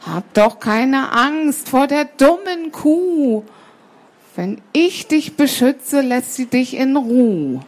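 lightly voiced soothing cat, unhurried; reassuring cat. Cat promises sparrow protection from the cow, lightly voiced reassurance. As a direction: coax with a slow, protective promise.

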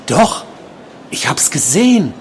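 high-pitched contradiction; obsessed patient, insistent. A narrator's reading. Patient contradicting the nurse, high insistent voice.

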